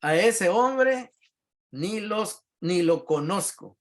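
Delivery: high, slow, insistent denial; swearing denial. Acted. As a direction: swear it, drawing each word out. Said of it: "y les juró".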